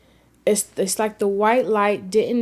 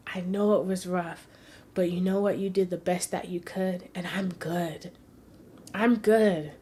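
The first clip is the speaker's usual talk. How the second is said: tender reassurance. Retold or imitated. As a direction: gently reassure a grieving mother. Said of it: "I held her and I said".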